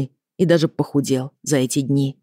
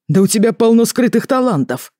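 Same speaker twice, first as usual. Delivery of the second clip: higher-pitched exclamation of admiration; impressed father; 8 semitones higher, 4 dB louder than usual. A narrator's reading. Father complimenting a girl's hidden talents, impressed.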